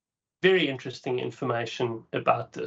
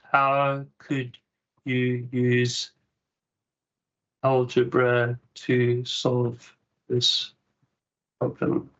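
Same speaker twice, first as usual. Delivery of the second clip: slow dictation; 3 semitones lower, much slower than usual. Shown as a demonstration. Typing a prompt to the AI.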